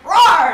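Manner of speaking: a big playful roar mid-recap; mock half-orc roar. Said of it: "And Dragor's like".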